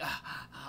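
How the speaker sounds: mock dramatic sighing; dramatic gasp. Mimicking her movie-like entrance, dramatic sighs. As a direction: sigh theatrically, imitating her. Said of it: "all dramatic".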